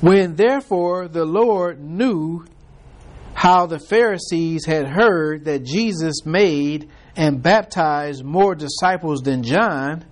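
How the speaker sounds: slow, measured Bible reading; preacher reading King James verses; scripture reading. Acted. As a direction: read the verses deliberately from the pulpit. Reads scripture passage aloud.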